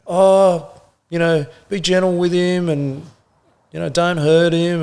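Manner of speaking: a hammed-up plea to go easy on him; pleading wife. Wife suddenly defends husband.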